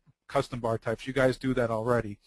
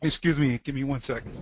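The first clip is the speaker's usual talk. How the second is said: coughing up water. Real, not acted. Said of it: "Some water went down the wrong pipe".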